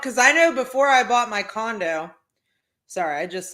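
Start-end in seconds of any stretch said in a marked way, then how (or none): 0.0-2.1 talking through a stifled burp; half-swallowed burp mid-sentence; holding back a burp. Real, not acted. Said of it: "was about to burp".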